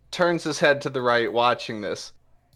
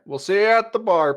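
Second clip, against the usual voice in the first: taunting thug; 9 semitones higher, 5 dB louder, faster than usual. Acted.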